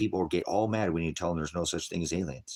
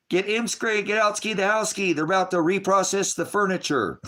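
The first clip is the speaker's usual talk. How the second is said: high, loud, hammed-up pig Latin babble; mock pig Latin; 6 dB louder than usual. Mocking pig Latin talk, high and loud. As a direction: ham up the silly pig Latin like a cartoon.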